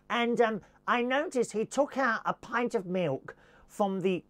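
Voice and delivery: lightly voiced fussy customer on the phone; mock posh complainer. Posh customer phoning Waitrose about milk, lightly acted moaning. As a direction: make a petty complaint with mock precision. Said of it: "one of those posh lot would moan".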